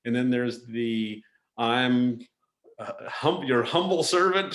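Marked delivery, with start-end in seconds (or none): 1.6-4.5 humble servant tone. Retold or imitated. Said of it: "sort of, uh, vocal inflection".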